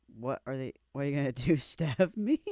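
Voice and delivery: loud taunting dare rising at the end; mock taunt. Quoting a cocky general's last taunt, loud and jeering. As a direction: jeer like a cocky soldier daring them.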